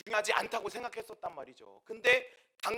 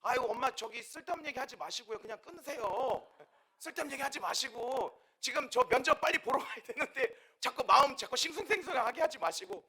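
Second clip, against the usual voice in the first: higher-pitched, hurried brush-off; acted exasperation; 5 semitones higher, 4 dB louder than usual. Daughter rushing to interview brushes off mother's call, acted exasperation. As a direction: fend off mom, pestered and impatient.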